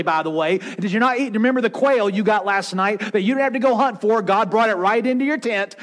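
imitating exasperated, indignant rebuke; seething. Moses rebuking the ungrateful people, acted seething. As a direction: fire off incredulous questions, mildly worked up. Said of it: "And Moses just seething because".

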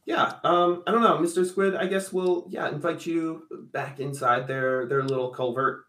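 a hint of a timid creature talking; NPC voice. GM voicing NPC to Mister Squid.

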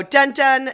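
loud, high dun dun; imitated scene-change sting.

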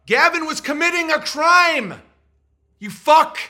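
mock Graham's badgering, rising to a shrill shout; mock angry rant. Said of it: "Graham's like".

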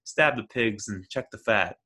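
lightly voiced eerie rich man; a hint of an unhinged heir recalling Papa; slight creepy lilt; creepy billionaire voice. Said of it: "he talks like this".

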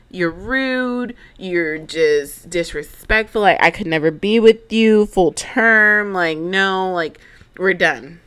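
mock offended ex, half-hearted; imitating an indignant boyfriend breaking it off; retold upset. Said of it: "He gets upset".

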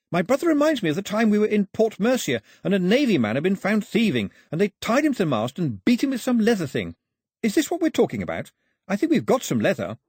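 a hint of an eager young man helping; eager island boy. A narrator's reading.

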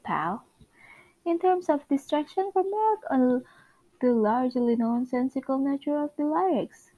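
lightly acted office comedy dialogue; animated amateur table read; sitcom script read-aloud. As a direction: read all parts of a sitcom scene. Reads office and boss scene.

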